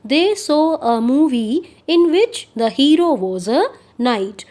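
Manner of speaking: very slow, clear dictation pace; spoken like a teacher dictating; slow example reading. Shown as a demonstration. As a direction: read each word out slowly for the class.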